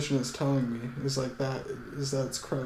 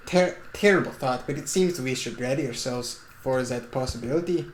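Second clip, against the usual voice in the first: put-on Swiss-German accent. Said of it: "I'm doing the fucking Swiss accent slash German accent".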